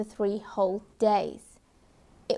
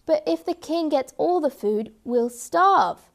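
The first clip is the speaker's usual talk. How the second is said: worried cat voice; 5 semitones higher, 4 dB louder than usual. Acted.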